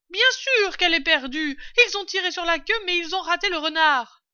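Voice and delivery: loud, high, sustained holler; calling down. A narrator's reading. Mistress telling the servant about the fox, calling down. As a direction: project every phrase down the stairs.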